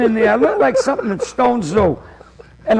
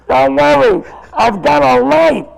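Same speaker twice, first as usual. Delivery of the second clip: calling out; 3 semitones higher than usual. Retold or imitated. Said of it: "He goes".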